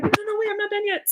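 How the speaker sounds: high, fast, urgent; a quick, high-pitched no, no, no; hurried protest. Retold or imitated. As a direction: rush in to stop her. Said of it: "She's like".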